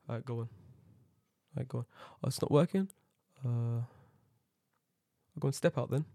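lightly voiced older worker, soft and halting; unhurried older worker. Older gate worker idly waving passengers on, soft and unbothered. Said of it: "One old guy was".

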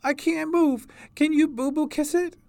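put-on very high, pained child's voice; crying little girl. A narrator's reading. Hurt girl asks sister to kiss the injury, crying child's voice. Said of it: "cried B B".

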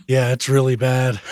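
rough voice from a fever; hoarse and worn out from being ill; hoarse sick voice. Real, not acted. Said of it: "My voice sounds awful".

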